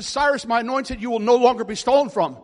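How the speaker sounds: bellowing the prophecy again from the pulpit; loud proclamation. Acted. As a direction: declare it loudly over the crowd. Re-proclaims prophecy at full volume.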